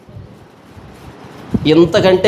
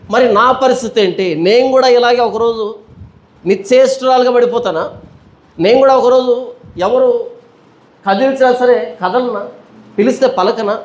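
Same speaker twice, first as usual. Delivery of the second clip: higher, anxious questioning of her own death; frightened Eve; 4 semitones higher than usual. Retold or imitated. Eve staring at dead Adam, fearing her own end. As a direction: ask it with rising dread. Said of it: "హవ్వే బాధపడి ఉంటుందా? హవ్వే భయపడి ఉంటుందా?".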